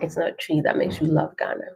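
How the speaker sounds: ordinary delivery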